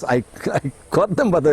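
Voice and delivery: chuckling through the words; a rueful laugh breaking into the line. Real, not acted. Telling the interviewer he caught his uncles, laughing. Laughing while recalling the embalming.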